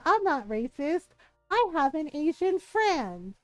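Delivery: drawn-out mimicry of a proud excuse; mock defensive. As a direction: mimic her self-justifying, stretched and rising.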